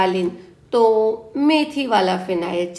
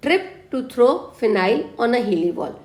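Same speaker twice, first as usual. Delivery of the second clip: slow mnemonic recap; slower than usual. Shown as a demonstration. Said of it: "मैं एक trick दे रही हूँ".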